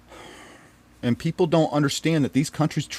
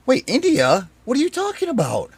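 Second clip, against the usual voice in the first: stunned disbelief; 9 semitones higher than usual. Retold or imitated. His stunned reaction to her trip.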